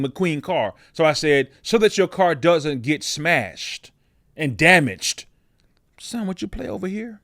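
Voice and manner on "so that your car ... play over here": calm parent voice. Retold or imitated. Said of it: "my ability to speak in a calm voice".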